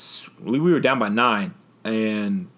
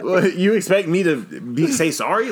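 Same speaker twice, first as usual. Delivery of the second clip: high incredulous; 9 semitones higher, 5 dB louder than usual. Real, not acted. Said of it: "Like, what?".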